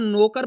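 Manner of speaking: नौकर said as "no-kar"; pure o in place of au in नौकर; wrong o vowel. Shown as a demonstration. Teacher warning learners of the mistake, o for au. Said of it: "ओ की मात्रा का उच्चारण हो जाएगा".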